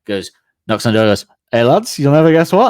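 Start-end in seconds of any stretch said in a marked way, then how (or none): 1.5-2.7 loud, higher excited call to the lads; loud excited announcement. Retold or imitated. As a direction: burst in shouting the news. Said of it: "The guy goes".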